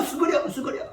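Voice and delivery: fading repeated order to duck; hushed urgent warning. Acted. Acts Jonathan repeating duck, fading.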